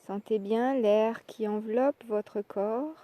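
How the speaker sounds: usual speaking voice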